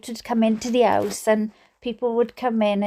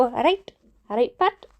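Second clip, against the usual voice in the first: Welsh greeting. Shown as a demonstration. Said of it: "we go".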